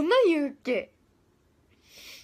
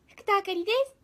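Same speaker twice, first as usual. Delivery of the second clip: a second, more put-on take of her self-introduction; Fukuda Akari impression; 6 semitones higher than usual. Idol mimics a fellow member's self-introduction, lightly put-on voice. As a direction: lean further into a member's way of saying her name. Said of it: "みたいな。".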